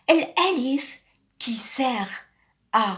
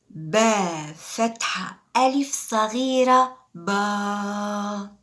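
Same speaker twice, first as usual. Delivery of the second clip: 1 slow spelling out; slower than usual. Shown as a demonstration. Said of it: "slow syllable-building demo".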